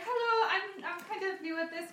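a hint of put-on girlish voice; Millie the Mercy. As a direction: imitate a high girly newcomer. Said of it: "so he'd be like".

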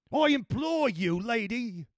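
high, imploring cry; screamed plea. A narrator's reading. Earl begging the escaping lady, high screamed plea. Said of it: "screamed the earl".

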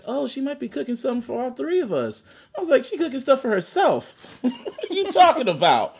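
high-pitched, amused retelling through laughter; laughing while talking. Real, not acted. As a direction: barely hold the laugh in as you quote. Retells kitchen exchange while laughing.

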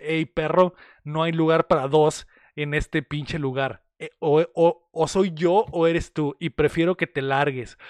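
amenaza imitada, grave y pausada; chico rudo. Retold or imitated. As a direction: haz de rudo, marcando despacio cada advertencia. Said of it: "el chico rudo le dice". (tipo rudo retador, levemente actuado)

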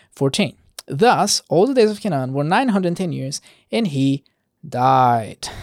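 measured verse-by-verse Bible reading; scripture reading. Acted. Preacher reading Genesis genealogy to listeners, measured scripture reading. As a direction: read the genealogy aloud, deliberate on each closing phrase.

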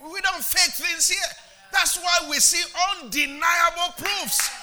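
loud, impassioned preaching. Acted. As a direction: preach it with full force. Preaching shout returns.

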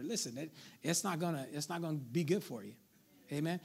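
mock-delicate, quiet understatement of a warning; softened warning. Shown as a demonstration. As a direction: let them down gently, voice dropped. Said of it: "I gotta make it a little softer".

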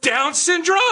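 shrill falsetto squeal; high squeaky voice. Acted.

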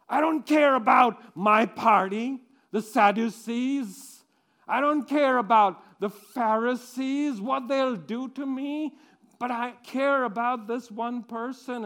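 loud defiant shout; defiant outburst. Acted. Defying the Pharisees and Sadducees, loud and defiant. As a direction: fling it out, caring nothing for the party.

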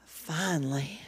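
soft whispered word. Shown as a demonstration. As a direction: breathe it as a whisper. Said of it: "Stop right there".

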